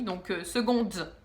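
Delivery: slow, laughing try at "Seconde" with a French accent; self-mocking English accent. Shown as a demonstration. Vlogger mocking her own English accent on a title, laughing. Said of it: "mon accent en anglais est vraiment pourri".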